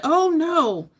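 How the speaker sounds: loud, high mock outrage; all-caps outburst, acted out; imitated yelling. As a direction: yell it like he typed it in caps. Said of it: "I'm yelling 'cause he was yelling".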